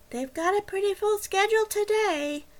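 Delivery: utterly bored, dragging indifference. A narrator's reading. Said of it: "She sounded even more bored".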